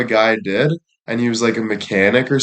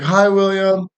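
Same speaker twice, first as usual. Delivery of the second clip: imitating her much higher greeting; mock high-pitched phone hello; 8 semitones higher than usual. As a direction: put on the agent's high voice. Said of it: "a more high-pitched voice than normally".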